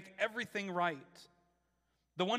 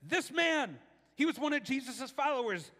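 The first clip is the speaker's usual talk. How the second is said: put-on higher accusing servant girl voice; 6 semitones higher, 3 dB louder than usual. A narrator's reading. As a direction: point him out, higher and louder. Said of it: "finally she said".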